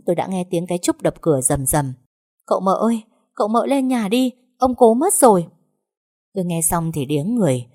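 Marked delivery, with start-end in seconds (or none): 2.5-5.5 cao và to dần, hốt hoảng gọi cửa; gọi toáng lên báo tin dữ. Acted. Trúc đập cửa báo tin. (giọng hốt hoảng gọi to)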